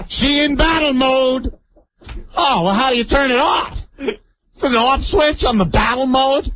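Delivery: high, imitated Hispanic-Black boyfriend's accent; mock-helpless in Hispanic-Black dialect; comic high Hispanic-Black accent impression. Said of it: "it was a mixture between the Hispanic black".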